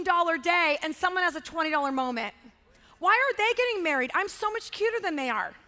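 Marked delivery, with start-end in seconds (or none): 3.0-5.5 envious complaint. Acted. Voices jealous onlooker's complaint.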